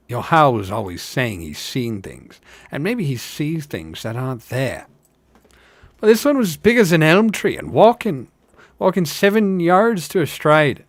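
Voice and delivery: from doubting villager to eager believer; arguing hobbits. Acted. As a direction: build into an excited tall tale.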